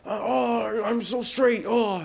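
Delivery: high, strained bro shout; hammed-up show-off straight dude; mock macho straight guy. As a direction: groan it out like an overeager straight guy. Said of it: "Guys that need to be like".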